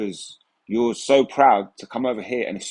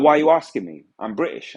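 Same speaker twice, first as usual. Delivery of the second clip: mock annoyed retort; 4 semitones higher than usual. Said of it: "they get pissed off at me".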